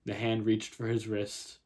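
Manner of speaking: measured literary reading; story narration. A narrator's reading. Writer reads her opening scene to viewers, story narration. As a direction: read the story out in even phrases.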